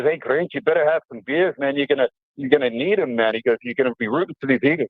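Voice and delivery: teasing brother. Retold or imitated. Eagles-fan brother teasing the guest.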